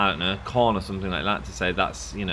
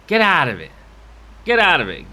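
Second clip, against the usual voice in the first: louder, higher shoo-off; mock shout; 7 semitones higher, 7 dB louder than usual. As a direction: bark it to clear space. Shouting at dance floor.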